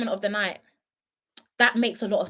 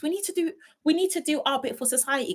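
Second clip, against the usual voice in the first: high, hammed-up plea to do your civic duty; mock preachy lecture; 6 semitones higher than usual. Streamer urging chat to do their civic bit, high mock-preachy voice. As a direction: keep up the pompous sermon voice, pitched up.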